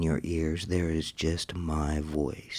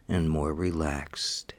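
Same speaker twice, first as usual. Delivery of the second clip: whisper. Acted. Whispered hypnosis cue.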